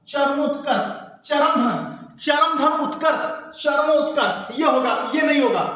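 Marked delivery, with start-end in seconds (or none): 0.1-4.6 slow spelled-out word. Shown as a demonstration. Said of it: "क्या होगा?".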